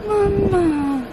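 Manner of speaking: put-on high little toddler calling mama. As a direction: lightly imitate a small child. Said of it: "she goes".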